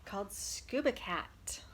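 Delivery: whispered title. Acted. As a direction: whisper it like a secret. Teacher whispers book title.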